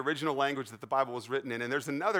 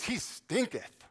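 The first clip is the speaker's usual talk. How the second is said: high, slow relish on "stinketh"; comically drawn out; 6 semitones higher, much slower than usual. Acted. Preacher replaying Martha's King James line for laughs, drawn out.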